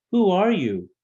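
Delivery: high, loud question called down; calling out. A narrator's reading. Gnome calling down to the moon elephant, loud call. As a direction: shout the question down from above.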